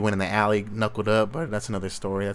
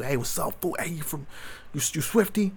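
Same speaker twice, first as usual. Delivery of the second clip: casual greeting that jumps much higher on "you Swifty"; mock call-out to a rival; 6 semitones higher, 4 dB quieter than usual. Imagining calling out to Swifty before jumping him, mock casual hail. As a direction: play it friendly, then spring the question high.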